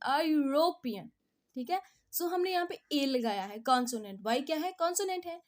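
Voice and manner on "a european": "European" opening on a firm y glide; y-sound demo. Shown as a demonstration. Teacher proving the y sound, "European" said as "yoo-ropean". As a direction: lean on the "yoo" that starts "European". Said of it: "वाई की sound".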